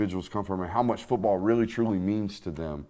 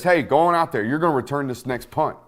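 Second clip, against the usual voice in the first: coach's order; 4 semitones higher, 5 dB louder than usual. Retold or imitated.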